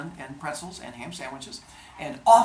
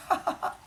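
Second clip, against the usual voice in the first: mock laugh; faster than usual. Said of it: "And he goes like".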